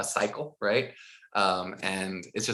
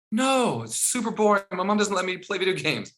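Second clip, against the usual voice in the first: put-on higher kid voice, a touch defiant; 8 semitones higher than usual. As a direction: answer like a stubborn fifth grader. Boy's answers voiced.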